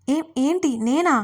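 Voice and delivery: high, slow, stunned disbelief; astonished. Acted. Dharani, shocked by her husband's words, asks in astonishment. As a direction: she can't believe she's the one crying. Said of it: "విస్తుపోతూ అడిగింది ధరణి".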